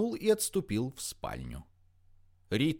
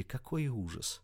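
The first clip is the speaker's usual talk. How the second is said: usual speaking voice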